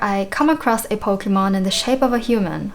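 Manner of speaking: put-on lightly British old character voice; mild British accent for a game character; British accent for Tangrowth. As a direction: read it with a hint of a British accent. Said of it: "a British accent".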